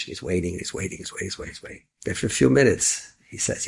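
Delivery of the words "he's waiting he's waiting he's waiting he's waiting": fading out. Real, not acted. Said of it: "repetition fades to nothing".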